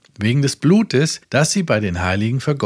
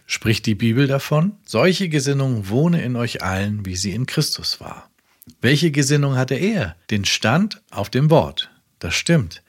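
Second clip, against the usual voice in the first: preaching. Acted. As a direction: proclaim it to the whole world from the pulpit. Reads Branham sermon quote. (eindringlich predigend)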